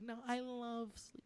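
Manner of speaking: high, soft, slow mock declaration of love; mock tender villain. Retelling how the badass villain turns loving, mock tender. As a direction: imitate a villain gone sweet, drawn out.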